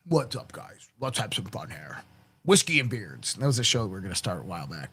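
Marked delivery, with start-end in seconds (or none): 0.1-3.3 mock host. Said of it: "be like".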